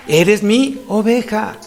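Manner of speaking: slow, gently spaced affirmation; beautiful, tender words. Acted. Jesus speaking to his own sheep, slow and tender. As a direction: let each word land lovingly. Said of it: "Hasta se escucha hermoso".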